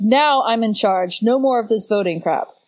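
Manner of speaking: firm, assertive, commanding delivery. Retelling how Dargo assumes command: imitating Dargo, assertive. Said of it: "very assertive way".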